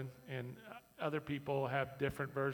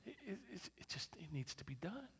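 whisper; 6 semitones higher, 7 dB quieter than usual. Acted. Aside about quiet servants.

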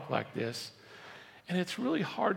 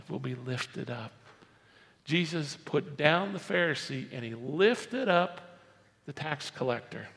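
ordinary talk

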